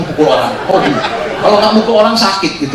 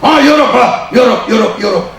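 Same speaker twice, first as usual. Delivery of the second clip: impressed officer; 3 semitones higher, 5 dB louder than usual. Retold or imitated. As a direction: savour the word like a dazzled officer. Officer repeating a word in awe.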